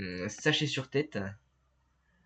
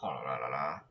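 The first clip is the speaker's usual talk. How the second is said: mock English accent; 10 semitones lower, 4 dB quieter than usual. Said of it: "cet accent anglais".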